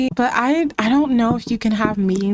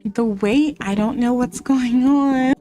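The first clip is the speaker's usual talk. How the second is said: apologetic host; 4 semitones higher than usual. Pretend. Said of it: "We're gonna be like".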